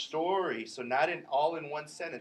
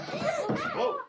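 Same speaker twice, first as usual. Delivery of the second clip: surprised whoa. Real, not acted. Sudden surprise in class.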